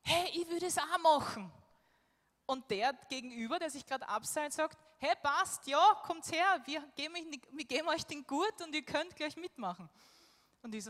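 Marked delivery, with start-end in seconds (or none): 0.0-1.5 higher, louder eager shout across; excited higher call, imitating Michi. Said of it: "die Michi ruft". 5.0-9.9 higher, louder friendly call to people far off; imitated cheerful climber calling out; calling over. Climber calls over to the group.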